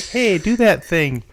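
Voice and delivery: high, slow pushy American; an American fan demanding a party trick. Retold or imitated. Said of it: "Americans love people, uh, to perform for us".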